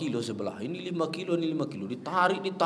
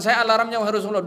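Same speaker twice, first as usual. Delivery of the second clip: Bilal promising; 6 semitones higher, 6 dB louder, faster than usual. Retold or imitated. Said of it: "Bilal mengatakan".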